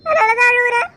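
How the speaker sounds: a wife's hurt crying; tearful crying. Acted. Wife tells her husband why she cries, tearful. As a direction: speak through tears. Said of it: "எதுக்கு இப்ப அழுகுற".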